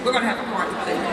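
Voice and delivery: fast, punchy, sassy declaration; with attitude. Shown as a demonstration. Speaker coaches the crowd to tell a girlfriend, with attitude. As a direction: say it with some attitude, quick and emphatic. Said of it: "say it with some attitude".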